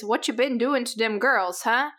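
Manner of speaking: lightly imitated New York accent; New Yorker accent. Podcaster mimicking an actor's failed redneck line, light New York accent. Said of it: "He sounds like a New Yorker".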